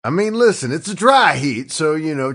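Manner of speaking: cowboy voice. Acted. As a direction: talk like a dusty old cowboy. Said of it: "why is he talking like this".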